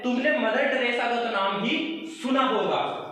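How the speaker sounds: "तुमने" hit hard at the start; emphatic stress. Shown as a demonstration. Teacher giving a second emphatic version, stress on "तुमने". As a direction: lean on "तुमने" as if certain. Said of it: "या ऐसे बोल रहे हैं".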